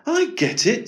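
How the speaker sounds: high-pitched dawning excitement; getting excited. A narrator's reading. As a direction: exclaim it as it suddenly clicks. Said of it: "getting excited".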